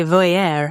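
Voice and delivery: "voyeur" with an affected "-air" ending; "voyeur" made to sound fancy and French; super fancy pronunciation. Real, not acted. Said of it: "I try to sound super fancy".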